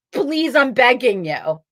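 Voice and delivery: slow, mildly acted begging; pleading. Patient begging the doctor to remove an organ, pleading. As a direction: retell a plea, drawing the words out. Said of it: "you have to beg".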